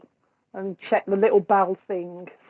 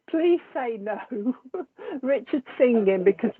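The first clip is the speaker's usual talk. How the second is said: pleading through giggles; laughing; 2 semitones higher than usual. Real, not acted. Begging viewers to say no to Richard singing, laughing. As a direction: beg them between bursts of real laughter.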